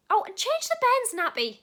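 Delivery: loud, high afterthought shouted across; called-out order. Acted. Telling a partner to do the nappy, loud call. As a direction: call it out sharply to your partner.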